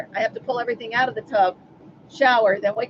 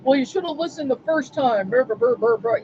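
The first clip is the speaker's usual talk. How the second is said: mock nagging that turns to gibberish; frustrated brother. Brother scolding her for not listening, mock frustrated nagging. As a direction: imitate a frustrated brother rattling on. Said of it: "He gets so frustrated".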